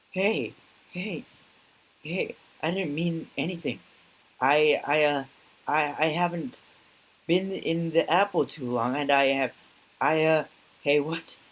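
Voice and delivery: high, nervous, stammering excuses; a lightly voiced panicky bar guy backing off; scared stammer. Frightened bar patron stammers.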